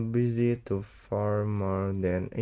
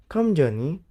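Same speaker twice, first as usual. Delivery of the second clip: calling out; 4 semitones higher, 6 dB louder than usual. A narrator's reading. Katy calls to a child.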